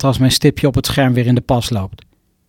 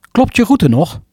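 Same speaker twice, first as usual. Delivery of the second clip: navigation app voice; 6 semitones higher than usual. Acted. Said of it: "de A N W B mevrouw spreekt mij toe".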